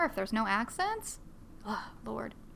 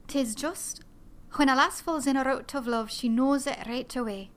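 put-on lightly Scottish stage accent, Fiona's line; a hint of a Scottish lass from Brigadoon; gentle Scottish brogue, stage version; 3 semitones higher than usual. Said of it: "I do these lines from the character Fiona from Brigadoon to get my Scottish accent".

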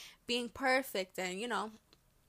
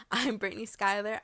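laughing; 6 dB louder than usual. Real, not acted. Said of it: "I'm gonna state it once again".

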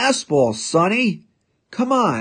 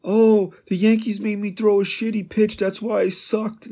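mocking whine, pitched higher; hammed-up whiny excuse voice; whiny crying baby; 6 semitones higher than usual. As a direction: mimic a sulking pitcher making excuses. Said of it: "You sound like a whiny, crying baby".

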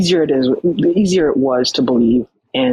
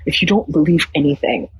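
lightly voiced Nigerian church uncle; Nigerian accent; 2 semitones higher than usual. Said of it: "I'm trying to do the Nigerian accent".

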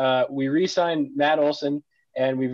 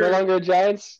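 mock disbelief; 5 semitones higher, much slower than usual. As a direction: stretch it out in fake shock. Friend switches team allegiance.

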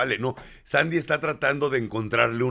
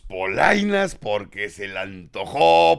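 dramatic slowdown; slower than usual. Acted. Dramatic buildup of the story.

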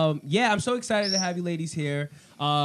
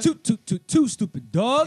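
stretched, louder hype call; hyped show name; 3 semitones higher, 6 dB louder than usual. Acted. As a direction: announce the show name big.

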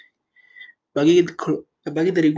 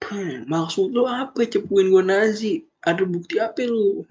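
higher-pitched mock indignation; acting out an offended denial, drawn out at first; indignant challenge; 4 semitones higher than usual. Accused villain confronting whoever exposed her, indignant.

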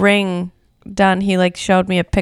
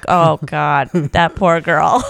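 pitying aside; 3 semitones lower, much slower than usual. Retold or imitated. Retold pity for the bride.

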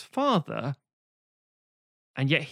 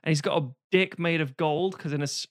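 usual speaking voice

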